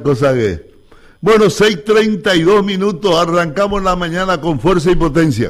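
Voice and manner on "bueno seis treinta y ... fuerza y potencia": radio show opener. Acted. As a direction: kick off the morning broadcast with energy. Opens the morning broadcast. (locución enérgica de apertura radial)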